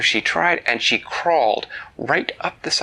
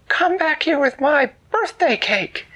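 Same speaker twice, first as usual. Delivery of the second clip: calling after thieves; 13 semitones higher than usual. Acted. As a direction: yell after the floating goblins. Girl chases goblins stealing cake.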